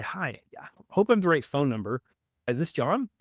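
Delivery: halting, hesitant caller opening; stuttered call opener. Shown as a demonstration. Salesman opens a cold call with a deliberate stutter. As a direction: stumble a little as if unsure of the number. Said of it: "notice there I kinda stuttered there".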